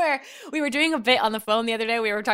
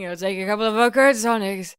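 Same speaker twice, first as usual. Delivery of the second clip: quick imitation of a singer's British line; mock accent of a singer on the phone; faster than usual. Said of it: "starts with me going".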